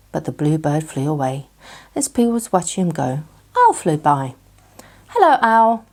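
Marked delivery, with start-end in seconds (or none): 5.1-5.8 higher, louder call up to Owl. A narrator's reading. Pooh calling to Owl flying by, loud. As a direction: call up into the sky. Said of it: "called Pooh".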